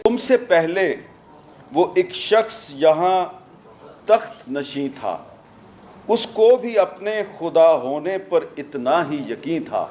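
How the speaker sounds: slow, measured verse recital with pauses; poetry recitation. Acted. Speaker quoting verse on power to the audience, slow poetic recital. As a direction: recite the verse slowly, phrase by phrase.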